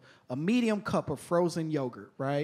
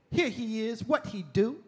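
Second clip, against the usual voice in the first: higher-pitched mock slam-poem cadence; lightly declaimed, rhythmic street poetry; hardcore spoken-word poet; 5 semitones higher than usual. Girl reciting an anti-drug poem, mock spoken-word cadence. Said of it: "reading this hardcore spoken word poem".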